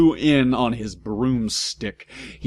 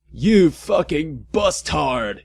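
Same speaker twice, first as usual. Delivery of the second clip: mock yell; 5 semitones higher, slower than usual. A narrator's reading. Draco yelling at Vampire, mock yell. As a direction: spit it at your rival. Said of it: "yelled Draco at Vampire".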